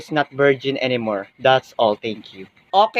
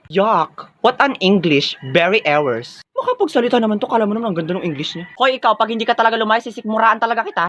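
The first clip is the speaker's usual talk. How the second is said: ordinary talk, nothing marked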